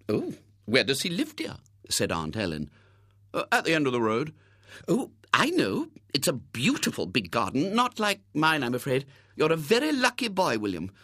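lightly voiced fussy aunt; a hint of a chatty aunt.

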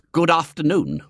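a cold clipped greeting; icy. A narrator's reading. Georgie's mother greeting William icily. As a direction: freeze him out. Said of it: "she said icily".

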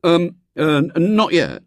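stammering attempt at nonchalance; failed airy manner. A narrator's reading. Boy hiding failure from the little girl, unconvincingly airy. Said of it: "trying rather unsuccessfully to assume an airy manner".

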